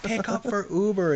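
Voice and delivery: high mock-accented request; broken English accent, insistent. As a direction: mimic broken English right up into the speaker box. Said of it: "getting, like, right up into it".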